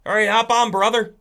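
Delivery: loud, high, hearty go-ahead; agreeable frog. Acted. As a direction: call the scorpion aboard as the frog. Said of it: "And the frog will, goes".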